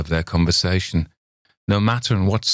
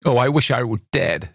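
struggling to say; 5 semitones higher than usual. A narrator's reading. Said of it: "she struggled to say".

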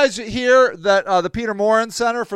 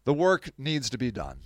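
self-mantra; 7 semitones lower, 10 dB quieter than usual. Retold or imitated. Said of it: "I say to myself".

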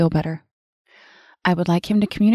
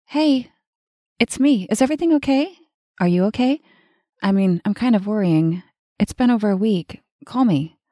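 much higher anxious pleading; worried voicemail; 4 semitones higher than usual. Acted. Woman worried her lover hasn't called, high anxious pleading. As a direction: let the worry creep up.

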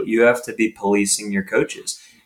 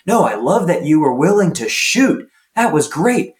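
encouraging coach; 3 semitones higher than usual. Retold or imitated. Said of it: "a positive inflection".

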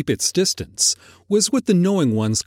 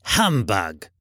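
put-on low, dismissive old miser; low curmudgeonly scoff; grumpy Scrooge; 5 semitones lower than usual. A narrator's reading. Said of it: "said Scrooge".

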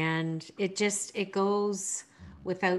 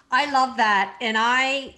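excited; 4 semitones higher, 7 dB louder than usual. Real, not acted. Host reacting with delight.

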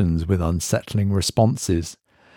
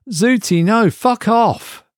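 angry snap; 14 semitones higher, 3 dB louder, slower than usual. A narrator's reading. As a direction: Mark higher, slow and biting on fuck off. Mark swears at device.

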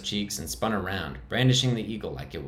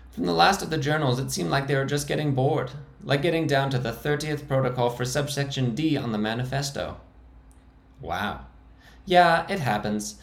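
much higher, squeaking; squeaky high voice; 6 semitones higher than usual. Acted. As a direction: defend the hideout in a high squeak. The speaker's held high voice.

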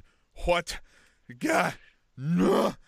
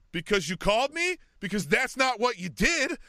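mock indignant wife; 8 semitones higher, 4 dB louder than usual. Wife confronting the sales manager.

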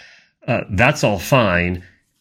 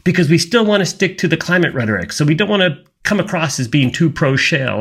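creepy whisper voice; 7 semitones higher than usual. Retold or imitated. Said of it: "using that little creepy whisper voice".

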